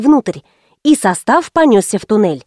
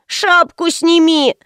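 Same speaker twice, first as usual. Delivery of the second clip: put-on nagging child; 6 semitones higher, slower than usual. Child nags mother.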